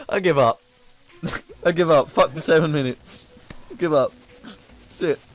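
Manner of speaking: high, squeaky words through real laughter; real breathless giggling fit, voice leaping high; helpless laughter. Real, not acted. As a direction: give up, too far gone laughing to finish sentences. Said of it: "you sound like you've totally gone".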